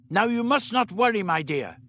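the Doctor reassuring Dodo. A narrator's reading. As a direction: comfort her firmly. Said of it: "the doctor tried to reassure her".

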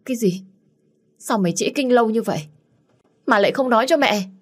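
mother shocked and scolding her daughter, alarmed outburst. Acted. Mother shocked at missed period.

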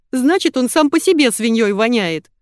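loud, high, queasy moan. A narrator's reading. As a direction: groan in disgust while nauseous. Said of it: "простонала я".

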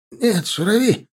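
high, desperate cry in broken Russian; pleading captive. A narrator's reading. Captive begging the soldier not to kill him. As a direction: plead without hope.

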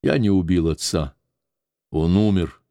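ordinary delivery, nothing marked

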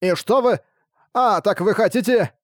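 high, puzzled servant voice; confused vampire servant. Acted. Rakard voiced again.

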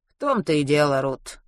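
usual speaking voice

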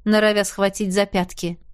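usual speaking voice

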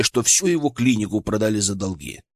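plain reading voice

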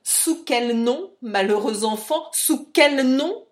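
loud, drawn-out reproach; crying out. A narrator's reading. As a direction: wail the question, stretching the last word. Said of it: "cria mistress Fitzsimmons".

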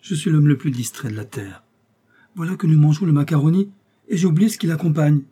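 loud, high self-reproach of a forgetful host; flustered host. Acted. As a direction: exclaim it, as if catching your own blunder. Acts the distracted host.

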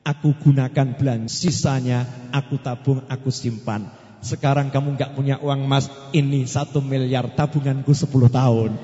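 a hint of a devoted wife opening her savings; voicing the loyal wife. Wife telling her broke husband about her savings, lightly voiced.

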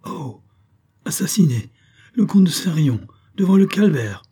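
high, loud staged gasp of horror; theatrical outcry, rising into a hushed hiss; exaggerated shock. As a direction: overplay the surprise. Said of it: "il exagéra ce tressaillement".

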